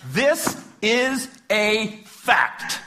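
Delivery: loud, high and emphatic; impassioned. Real, not acted. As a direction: argue it with rising passion. Impassioned mock-lawyer rant.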